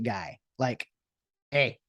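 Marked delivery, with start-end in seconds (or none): 1.5-1.8 hearty louder handshake greeting; old fashioned greeting. Retold or imitated. Vlogger offering a handshake, hearty and old-fashioned. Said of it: "like, old fashioned".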